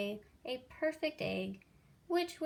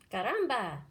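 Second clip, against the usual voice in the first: loud Spanish exclamation; cried out; 5 dB louder than usual. A narrator's reading. Chicken cries out at Jack's offer. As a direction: chicken blurting out. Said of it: "cried the chicken".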